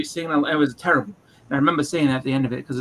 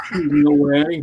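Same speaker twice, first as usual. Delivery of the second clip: louder, low imitation of the dragon; 3 semitones lower, 7 dB louder, slower than usual. Mimicking Valcor, louder and low. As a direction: ham up the creepy dragon. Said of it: "the way his voice goes the whole time".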